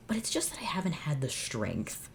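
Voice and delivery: hushed, breathy confession; dramatic whisper. Real, not acted. Host admitting she can't face the fic, whispered. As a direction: whisper it like a dark secret.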